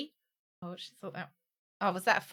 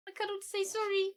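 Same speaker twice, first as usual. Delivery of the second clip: put-on baby talk; 10 semitones higher, 6 dB quieter, faster than usual. Speaks for herself to pet.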